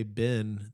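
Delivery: "Ben" with the Southern pin-pen vowel, like "bin"; merged vowel. Retold or imitated. Roommates mimicking Southerners, "Ben" said as "bin". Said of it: "you say it the same".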